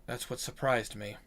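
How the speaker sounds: lightly voiced storyteller, low-key and measured; grave demon-slayer. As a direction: recount an old kill, voice sinking at line ends. Same character explains the weapon.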